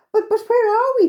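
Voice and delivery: high, loud flustered stammer; bewildered asking. A narrator's reading. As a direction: stammer as if lost and alarmed. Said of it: "they asked".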